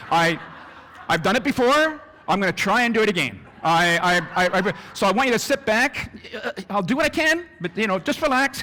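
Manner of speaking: a captain who isn't sure he can land the plane; unsure pilot. Retold or imitated. Captain announcing a flight he only hopes to land, nervously. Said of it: "You wouldn't be too happy".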